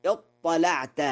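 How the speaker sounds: اطلعت with a thick, dark l after the ta; heavy lam. Shown as a demonstration. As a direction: back the tongue on the lam of اطلعت. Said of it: "ولا يخفى تغليظ اللام".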